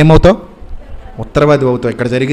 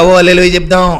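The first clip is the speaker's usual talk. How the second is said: mock preacher; 2 semitones higher than usual. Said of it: "అంటాడు".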